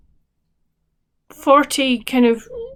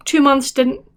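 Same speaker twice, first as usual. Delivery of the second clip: yawning. Real, not acted. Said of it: "I'm really sorry about yawning".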